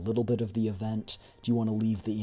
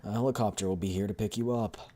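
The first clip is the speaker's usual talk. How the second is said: lightly voiced commanding game villainess; a touch of theatrical menace; Lentine, mock-cordial. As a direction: swoop up, then issue the warning. Voices Lentine dismissing George.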